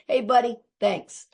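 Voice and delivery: casual greeting in passing; friendly call out. Retold or imitated. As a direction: call a cheery hello to the trash man. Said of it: "I just say".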